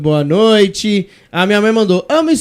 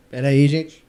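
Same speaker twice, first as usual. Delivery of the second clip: choking on a drink; 4 semitones lower than usual. Real, not acted.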